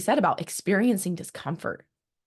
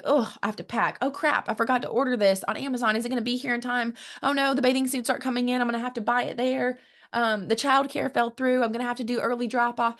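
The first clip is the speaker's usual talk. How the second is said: flustered; 5 semitones higher than usual. Retold or imitated. Stressed traveler packing, imitated.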